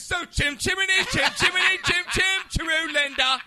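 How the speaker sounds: high, loud Cockney chant; mock British accent. Host greeting Linda, hammed-up British chant. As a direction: belt nonsense in a silly English accent. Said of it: "with the, with the accent".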